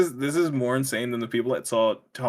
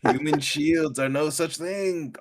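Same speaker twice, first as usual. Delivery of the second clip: mock bad dub line; 4 semitones higher, slower than usual. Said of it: "a bad voiceover one".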